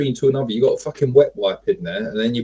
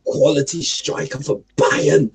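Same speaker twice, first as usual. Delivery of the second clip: put-on German accent. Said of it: "really good German accent".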